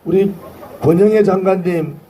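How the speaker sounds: hoarse, worn-out rally voice. Real, not acted. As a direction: voice gone from shouting. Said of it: "다 목이 쉬었습니다".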